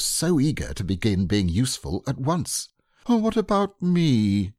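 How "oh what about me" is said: sadly. A narrator's reading. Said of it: "said Pooh sadly".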